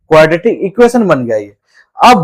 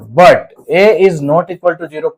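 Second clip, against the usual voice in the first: slow emphatic; much slower than usual. Shown as a demonstration. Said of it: "teacher stresses a key condition".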